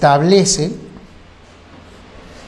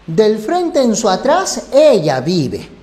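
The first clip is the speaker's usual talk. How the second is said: orden regional; 3 semitones higher, slower than usual. Shown as a demonstration. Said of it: "Compara estas dos".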